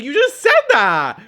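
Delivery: loud, slow, outraged retort; angry shout. Retold or imitated. Girlfriend yelling at boyfriend mid New Year's fight, angry shout. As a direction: fire it back at him, furious.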